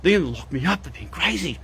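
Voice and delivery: a hammed-up panicky inner voice, quickening near the end; imitating a frightened ego to a live chat; mock scared ego voice. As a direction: play the fearful ego, half mocking it. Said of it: "the thought processes of the ego saying".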